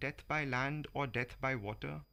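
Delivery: measured, rhythmic verse reading with voiced animals; reciting a crocodile and monkey fable in verse; poetry reading. Reads Vikram Seth poem aloud.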